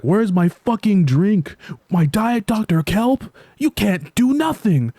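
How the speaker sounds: high, slow, nasty put-on voice of a rude customer. Vlogger voicing the rude customer yelling at SpongeBob, high slow sneer. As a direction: sneer it out slowly in a high mocking character voice.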